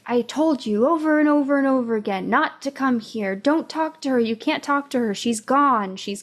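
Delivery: half-acted scolding, pushing fast; imitating a grandmother yelling, mildly; retold yelling. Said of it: "is yelling at".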